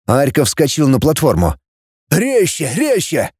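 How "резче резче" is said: high, urgent repeated cry; mild shout. Acted. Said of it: "закричал он". (торопящий высокий крик вполсилы)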